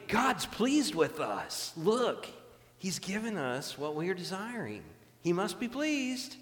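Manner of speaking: drawn-out, emphatic mock rejoicing; acted delight. The people celebrate God's supposed favour, with acted delight. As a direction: play people convinced they are blessed, rising high at the end. Acts out people glad of blessing.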